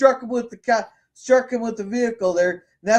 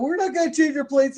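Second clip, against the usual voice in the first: higher-pitched taunting imitation; mocking; 6 semitones higher than usual. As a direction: imitate someone taunting a cop. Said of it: "mocking him, and going".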